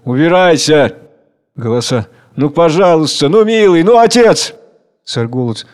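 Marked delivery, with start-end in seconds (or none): 0.0-1.0 a touch of annoyance; angry. Acted. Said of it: "Смерть сердито". 2.4-4.5 rising, high coaxing; pleading crowd. Acted. Crowd pleading with the father to dance.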